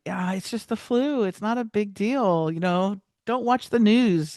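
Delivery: mock breezy dismissal. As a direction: play it as a know-it-all shrugging off the danger. Mocking his past dismissive self.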